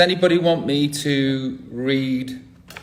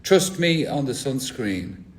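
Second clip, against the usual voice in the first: mock thespian reading. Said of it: "I just did an impression".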